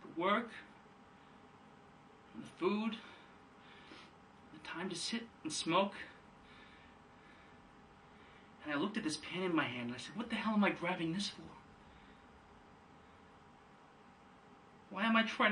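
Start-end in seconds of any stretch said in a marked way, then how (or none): 0.0-11.4 very soft, halting, long pauses between phrases; hushed recollection. Acted. Son telling his father what he saw, hushed. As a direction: drop right down and let each memory land. Monologue, Biff recalls seeing sky.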